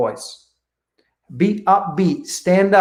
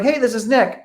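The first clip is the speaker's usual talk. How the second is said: upbeat intro; 6 semitones higher than usual. Shown as a demonstration. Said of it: "I'm like".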